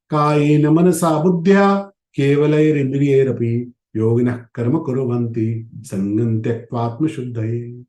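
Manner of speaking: measured, slow scriptural chant; slow Sanskrit recitation. Acted. Teacher recites the Gita verse to volunteers, slow and reverent. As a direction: recite the shloka slowly with reverence. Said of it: "भगवान ने पांचवें अध्याय में कहा".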